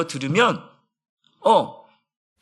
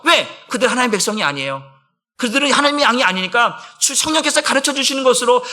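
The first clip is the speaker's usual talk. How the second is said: ordinary delivery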